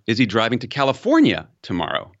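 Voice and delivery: "California" punched then falling; statement-like fall after California; stress on California. Shown as a demonstration. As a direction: land firmly on "California". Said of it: "I've said that sentence four times".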